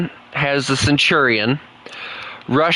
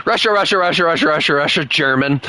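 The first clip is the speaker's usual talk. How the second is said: amused listing; 4 semitones higher, faster than usual. Real, not acted. Reading long repetitive list.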